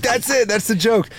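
very high mock woman voice; imitating widow. Comic mimicking Rodney's widow, very high and light. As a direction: squeak it out like her.

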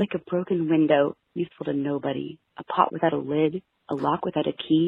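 mock-dramatic poem reading; poem recitation. Reads her sad poem aloud.

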